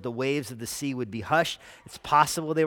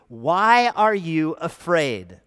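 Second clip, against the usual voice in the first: searching question; 3 semitones higher, 8 dB louder, much slower than usual. Retold or imitated. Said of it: "the response from God is this question".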